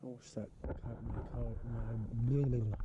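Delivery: lips numb from the cold; talking with a numb frozen mouth. Real, not acted. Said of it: "My mouth is so numb I can't even talk".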